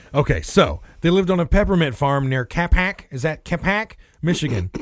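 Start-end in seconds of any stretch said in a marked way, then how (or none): 3.1-4.7 odd, otherworldly put-on alien voice. Reading notes to co-hosts, a speaker asks about a town: alien voice. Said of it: "Why'd you say it like an alien?".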